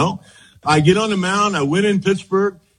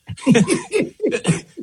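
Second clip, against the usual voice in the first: burst of laughter; 7 semitones higher than usual. Real, not acted. Recalling the manager's sudden reversal.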